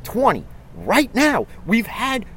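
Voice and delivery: building fan frustration; heated rant. Real, not acted. Fan outburst about the team.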